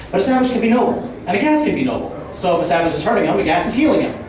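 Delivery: rapid absurd wordplay rant, building; escalating comedy rant. Acted. Roast-style free-association rant.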